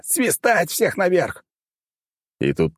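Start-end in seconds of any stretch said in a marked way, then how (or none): 0.0-1.4 yelled order. A narrator's reading. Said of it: "заорал я".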